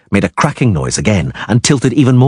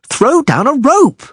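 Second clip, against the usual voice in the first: high, loud yell; 3 dB louder, slower than usual. A narrator's reading. Dandelion yelling at the others for a rope, high loud. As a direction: demand the rope at full voice. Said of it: "Dandelion yelled".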